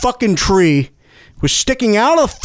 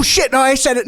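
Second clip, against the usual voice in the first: panicked shout; 6 semitones higher than usual. Acted. Slips up mid argument.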